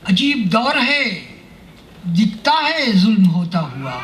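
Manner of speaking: measured Urdu verse delivery, pitched above plain talk; mushaira poetry recitation. Acted. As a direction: declaim each couplet slowly, drawing out the phrases.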